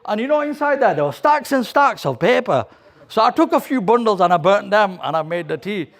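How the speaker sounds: put-on a boy proudly owning up, rising high; excited boy confessing. Boy telling his dad he burnt the papers, excited.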